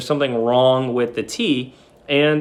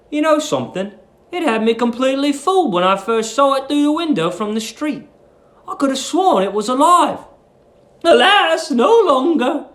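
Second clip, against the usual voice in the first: put-on higher, politely curious young man; lightly voiced curious young guest; young Billy; 11 semitones higher than usual. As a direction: voice the admiring young lodger, pitched up. Billy's dialogue read aloud.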